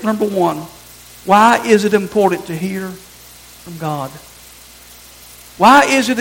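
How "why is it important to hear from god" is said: slow emphatic question. Shown as a demonstration. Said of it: "First question I wanna answer is this".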